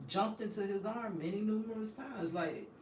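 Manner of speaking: put-on high-pitched voice of a baby's thoughts; puzzled baby. Baby at the visiting glass wanting daddy, puzzled high voice. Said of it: "looking around puzzled".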